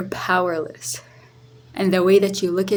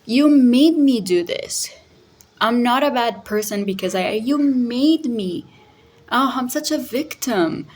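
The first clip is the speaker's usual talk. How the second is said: higher, self-pitying whine, rushed in places; mock victim voice; 5 semitones higher than usual. Narcissist dodging blame, imitated with a higher self-pitying whine. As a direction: play the wronged victim, a little hammed-up.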